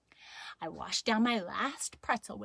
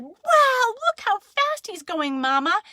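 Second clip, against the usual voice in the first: amazed Daddy; 11 semitones higher, 7 dB louder than usual. Acted. Daddy tells Mama about the running child, amazed. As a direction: marvel loudly and drag it out. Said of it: "And Daddy said".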